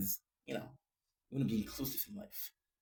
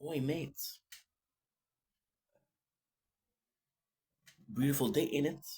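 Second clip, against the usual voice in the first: put-on British accent; lightly hammed British accent. Vlogger voicing a commenter he likes, British accent. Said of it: "I'm gonna give him a, a, a, a British accent".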